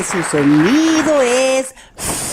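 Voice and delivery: "F" as a bare hiss of air from lip on teeth; F sound shown. Shown as a demonstration. Teacher showing the children the F sound. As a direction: blow out "F" as air only, no "efe". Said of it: "quiero que me hagan su sonido".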